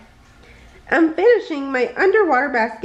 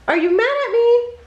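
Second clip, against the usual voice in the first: anxious; 11 semitones higher than usual. Acted. Repeated anxious question.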